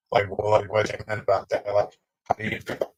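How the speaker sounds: choppy, cutting-out audio; bad connection. Real, not acted. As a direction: voice breaking up over a bad line. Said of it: "You're breaking up so bad".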